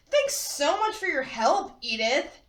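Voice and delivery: syrupy fake-sweet thanks; drawn out, sickly sweet. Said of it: "in what's described as a sickly sweet tone".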